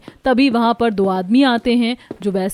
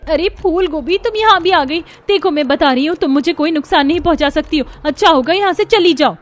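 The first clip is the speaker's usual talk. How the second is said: higher, raised threatening yell; warning shout; 5 semitones higher, 3 dB louder than usual. Acted. Neha yelling at her mother-in-law as a cauliflower, raised threat.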